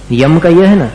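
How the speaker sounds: ordinary delivery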